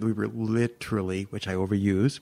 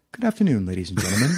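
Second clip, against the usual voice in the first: French captain announcement; faster than usual. Retold or imitated. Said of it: "he goes".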